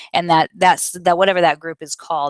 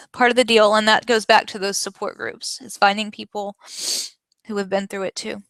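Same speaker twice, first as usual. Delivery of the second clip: real tearful voice, pitched up; close to tears; 4 semitones higher than usual. Real, not acted. Podcaster admitting a listener's question made her cry, tearful. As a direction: talk on through the tears, voice higher. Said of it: "making me cry".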